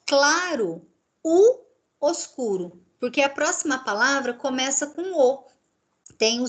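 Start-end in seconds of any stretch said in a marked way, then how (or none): 0.1-2.8 "claro, o, oscuro" slow and lifted; Spanish example. Shown as a demonstration. Teacher modelling Spanish phrase, slow. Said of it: "se eu falo".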